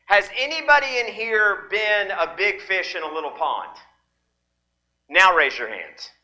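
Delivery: the same question in a light Southern turn of phrase, voice barely changed; a playful hint of Southern dialect, in the preacher's own voice. Shown as a demonstration. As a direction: ask it the folksy Southern way with a big fish in a little pond. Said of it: "Southern dialect".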